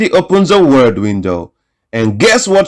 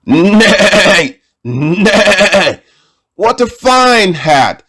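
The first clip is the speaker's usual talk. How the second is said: horse voice; 5 semitones higher, much slower than usual. Acted. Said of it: "said the horse".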